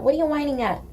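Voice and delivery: puzzled coo at the dog; pet talk. Real, not acted. Asking the dog at the window in high pet talk.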